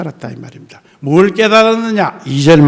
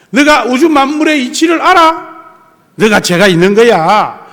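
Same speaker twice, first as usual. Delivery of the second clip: God scolding; 5 semitones higher than usual. Retold or imitated. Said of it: "야단을 쳐요".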